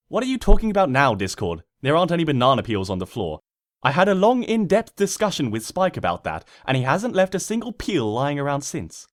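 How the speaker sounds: a smug pony scoffing at an invisible heckler. Acted. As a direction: brush off the narrator briskly, pleased with herself. Twilight arguing with narrator.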